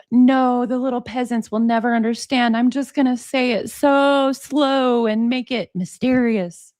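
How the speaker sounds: lightly imitating a condescending expert; mock condescending explainer. Host mimicking Jeffrey talking down to peasants, mock condescension. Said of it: "Jeffrey's explaining this like".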